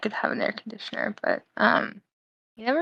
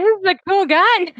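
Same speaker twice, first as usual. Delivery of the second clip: retold excitement; 10 semitones higher, 5 dB louder than usual. Dad excited about found gun.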